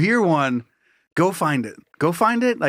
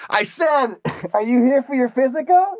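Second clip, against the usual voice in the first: high, raised voice, insistent repeat; shouting over noise; 9 semitones higher than usual. Acted. Costumed doctor repeats himself over the suit's fan, hollering. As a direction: holler it above a running fan. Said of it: "he's talking over that of the fan".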